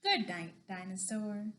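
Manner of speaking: low, settled bedtime farewell; tender, low storybook sign-off; gentle goodnight. Acted. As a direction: tuck the dinosaur in with your voice.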